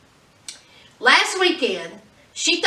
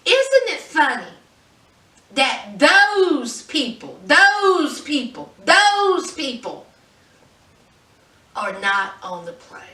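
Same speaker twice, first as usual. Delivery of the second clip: mock snide; 3 semitones higher than usual. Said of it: "she says".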